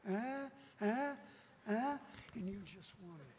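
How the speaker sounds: short puzzled rising "huh" noises; clueless bystanders. Retold or imitated. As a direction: imitate people who just don't get it. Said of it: "the other Christians are".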